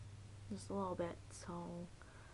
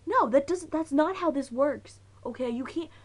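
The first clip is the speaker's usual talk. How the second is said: high, incredulous objection; retold disbelief; 6 semitones higher, 5 dB louder than usual. Friends telling Jess her turn makes no sense, incredulous. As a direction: protest like the rules were broken. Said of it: "That was my disbelief".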